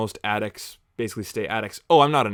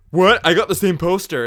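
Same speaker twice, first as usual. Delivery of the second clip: higher, louder baffled commenter voice; confused commenter; 9 semitones higher, 10 dB louder than usual. Retold or imitated. Viewer answering his joke, higher and louder, baffled. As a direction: play a puzzled viewer protesting. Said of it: "people were commenting".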